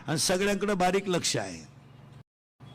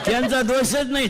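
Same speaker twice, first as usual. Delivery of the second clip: chuckling through the words, higher; laughing; 4 semitones higher, 6 dB louder than usual. Real, not acted. Amused preacher laughing at the crowd's mix-up. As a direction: laugh it off while talking. Laughing at audience's wrong answer.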